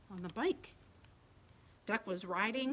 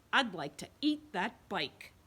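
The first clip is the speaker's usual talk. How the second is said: hungry goat voice; 4 dB louder than usual. Acted. Goat's thought.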